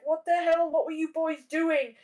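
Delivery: high, exasperated mom outburst; mom scolding. Retold or imitated. Mom finds injured son.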